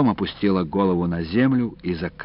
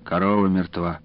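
plain reading voice

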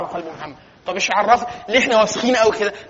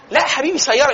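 firm correction; 5 semitones higher, 5 dB louder than usual. Shown as a demonstration. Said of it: "correcting a misreading".

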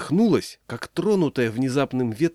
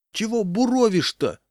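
high-pitched indignant call; heckling shout; 10 semitones higher than usual. A narrator's reading. Crowd heckling the leader, indignant shout. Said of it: "крикнули ему".

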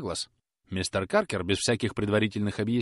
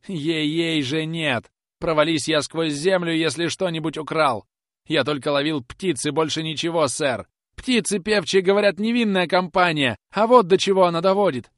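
much higher, louder desperate begging; pleading tone; 7 semitones higher, 7 dB louder than usual. Acted. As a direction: swear innocence in panic. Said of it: "умоляющим тоном". (умоляющим тоном, намного выше и громче)

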